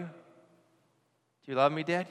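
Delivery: slow, drawn-out plea from a son; pleading son. Retold or imitated. Son asking his dad again, slow and pleading. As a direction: stretch the question out, hoping.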